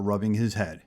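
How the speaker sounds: ordinary delivery, nothing marked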